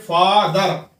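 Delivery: फादर split as फा-दर; two syllables. Shown as a demonstration. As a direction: say फादर in two distinct parts, फा and दर. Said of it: "दो हिस्सों में पढ़ रहे हैं".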